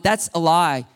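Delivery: steady, controlled correction; firm truth-telling. Shown as a demonstration. Pastor speaking truth to a stronghold, firm but measured. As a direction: state it firmly but measured. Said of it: "I'm not going".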